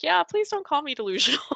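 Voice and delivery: high, fast, laughing; laughing plea. Retold or imitated. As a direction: laugh it off, pleading. Mock plea about being called crazy.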